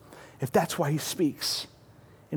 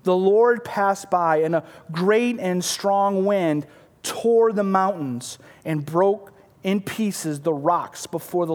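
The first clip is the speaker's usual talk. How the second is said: dramatic scripture reading. Acted. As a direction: build each phrase like a storm.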